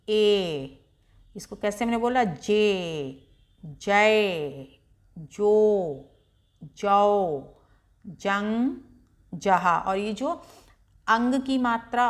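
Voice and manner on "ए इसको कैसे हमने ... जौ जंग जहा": slow syllable-by-syllable recitation; teacher reciting each syllable with a pause; barakhadi drill. Shown as a demonstration. Teacher drilling children on चा row, recited slowly. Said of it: "अब ये ए है तो".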